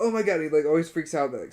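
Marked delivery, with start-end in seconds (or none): 0.0-0.4 high, loud mock panic; imitating his friend freaking out; paranoid panic. Imitating a paranoid friend spotting a cop. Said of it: "is always paranoid when he's high".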